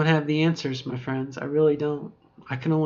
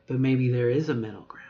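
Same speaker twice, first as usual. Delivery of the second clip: dropped voice. Shown as a demonstration. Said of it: "hear my voice drop".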